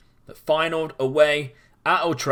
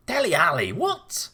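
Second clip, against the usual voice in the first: surprised; 4 semitones higher than usual. Real, not acted. Disbelief at Dele Alli scoring.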